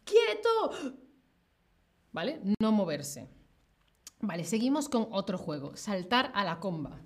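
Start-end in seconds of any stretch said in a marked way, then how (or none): 0.0-1.0 police command. Retold or imitated. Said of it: "la policía dice".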